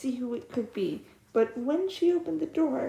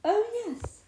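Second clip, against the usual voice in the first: eager princess; 9 semitones higher than usual. Acted. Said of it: "she answered".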